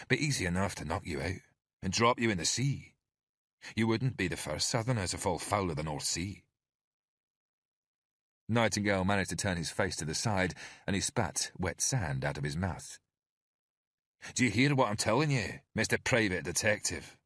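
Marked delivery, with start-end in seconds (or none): 0.1-6.4 lightly voiced Scottish thug; a hint of Scottish menace; Scottish thug warning the detective off, light Scottish accent. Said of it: "His accent was Scottish". 14.3-17.2 lightly voiced Scottish thug; a hint of Scottish menace; Scottish thug warning the detective off, light Scottish accent. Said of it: "His accent was Scottish".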